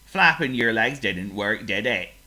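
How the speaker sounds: a pig sorry for his friend; lightly voiced pig; mild pig sympathy. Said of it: "said Oink".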